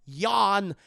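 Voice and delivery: loud drawn-out word after a pregnant pause; Christopher Walken. Retold or imitated. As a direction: drop in one loud, deadpan word after a long beat. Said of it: "it's a pregnant pause, and goes".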